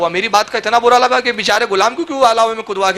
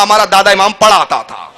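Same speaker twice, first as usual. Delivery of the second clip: laughing punchline; 4 dB louder than usual. Shown as a demonstration. Preacher to his audience, laughing at his own punchline. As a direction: deliver the punchline پڑھاتا with a chuckle. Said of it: "وہ ڈائلیگ میں نے اتنی بار بار مارا".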